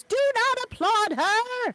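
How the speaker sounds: high, slow, indignant shriek; Invader Zim voice. Retold or imitated. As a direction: screech it like an outraged alien. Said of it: "Invader Zim jumps up and goes".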